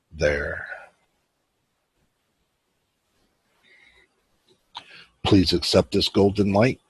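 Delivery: unhurried meditation guide, long pauses between phrases; guided meditation. Real, not acted. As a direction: ease them into it with measured, spacious phrasing.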